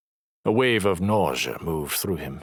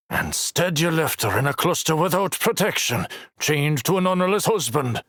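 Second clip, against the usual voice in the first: snarling; 10 semitones higher than usual. A narrator's reading. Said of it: "Logan snarled".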